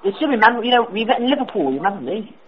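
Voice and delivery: a prank caller faking British; put-on British accent. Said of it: "Sorry if my accent was in and out".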